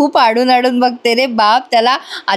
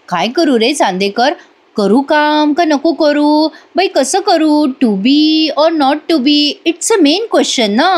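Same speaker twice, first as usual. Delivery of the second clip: slow, higher theatrical pondering; mock dithering; 4 semitones higher, slower than usual. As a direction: ham up the indecision. Kala mock-dithering over decision.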